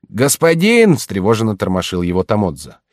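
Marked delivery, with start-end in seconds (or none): 0.1-1.0 громче и выше, встревоженный зов; тормоши и зови погромче; громкий оклик. Acted. Слуга будит хозяина. (громкий встревоженный зов слуги)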